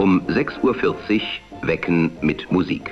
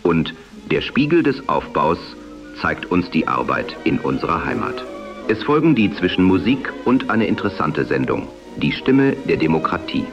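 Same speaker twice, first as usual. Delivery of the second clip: am radio. Acted. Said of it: "die dem damaligen Sprechstil nahekommt".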